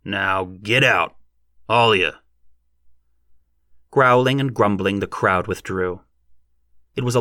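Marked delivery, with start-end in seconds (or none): 0.0-2.1 stern rustic dismissal; ordering out. A narrator's reading. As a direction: drive them off, punching the end. Farmer orders the crowd off.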